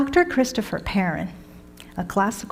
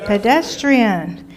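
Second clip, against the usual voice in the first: drawn out; 3 dB louder, slower than usual. Shown as a demonstration. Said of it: "teacher drawing out vocabulary word".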